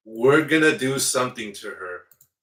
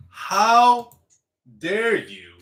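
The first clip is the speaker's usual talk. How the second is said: mock outraged; 8 semitones higher, 5 dB louder, much slower than usual. Acting out a furious parent.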